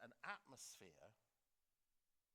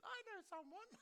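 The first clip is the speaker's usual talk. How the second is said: posh adviser; 3 dB louder than usual. Retold or imitated. Posh adviser volunteers in cabinet.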